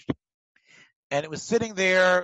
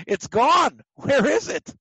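mock panic; 7 semitones higher, 5 dB louder, slower than usual. Acting out discovering missing fish.

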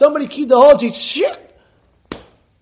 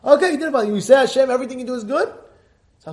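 ordinary talk, nothing marked

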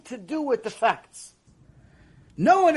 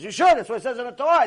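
louder, higher, insistent; emphatic answer; 4 semitones higher, 6 dB louder, much faster than usual. Retold or imitated. Rabbi insists to the questioners it's Torah, emphatic and loud. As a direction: drive it home like settled law.

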